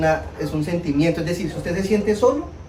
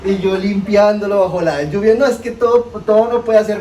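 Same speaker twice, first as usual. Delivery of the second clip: laughing while telling; 4 semitones higher, 5 dB louder than usual. Real, not acted. Laughing at own misfortune.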